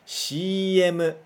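"X M" said the Japanese way, as "shii emu"; "X M" spoken as "shii emu", like Japanese ads say it; Japanese letter names. Shown as a demonstration. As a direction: model "X M" in Japanese katakana style. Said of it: "Repete depois de mim".

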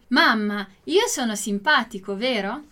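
"vero" lifted into a rising question; question intonation. Shown as a demonstration. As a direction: ask it, with the voice going up on "vero". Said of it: "A entonação na pergunta".

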